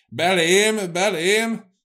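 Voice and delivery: high, loud repeated shout; angry cry. A narrator's reading. Cecei slams the table over the hatred in him, angry cry. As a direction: cry out in indignation, banging each word. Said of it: "kiáltott az asztalra csapva Cecei".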